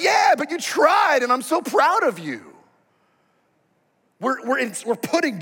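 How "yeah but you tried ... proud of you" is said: proud parent. Retold or imitated. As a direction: exclaim your pride in the child. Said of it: "you're like".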